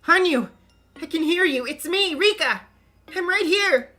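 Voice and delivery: loud, eager shouts; frantic calling. Acted. Rika shouting into the crystal ball so Hanyu hears her, loud. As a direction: yell to be heard far away.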